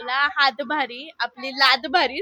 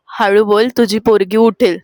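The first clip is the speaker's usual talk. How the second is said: loud, lower-pitched announcement; loud challenge phrase; 4 semitones lower, 8 dB louder than usual. Shown as a demonstration. Sister gives the whisper challenge phrase, loud and clear. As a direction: call the phrase out loudly.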